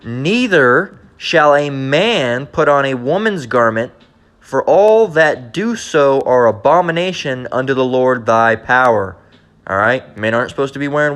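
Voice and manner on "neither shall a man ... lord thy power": very slow, deliberate verse reading; scripture reading. Real, not acted. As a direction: read out the law word by word, weightily. Reads scripture aloud.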